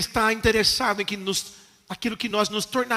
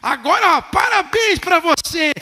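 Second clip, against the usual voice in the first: mock approving God; 6 semitones higher, 4 dB louder than usual. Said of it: "E Deus vai falar assim".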